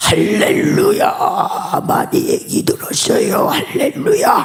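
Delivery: put-on commanding, powerful dragon-like voice. Retelling a visitor's greeting after a seminar: imitating a commanding dragon-like voice. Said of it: "용 포스로 이렇게 오셔가지고".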